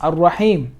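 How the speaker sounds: Ar-Rahim started afresh on a clear A; alif pronounced. Shown as a demonstration. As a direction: sound the opening A of Ar-Rahim. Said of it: "then this would be pronounced".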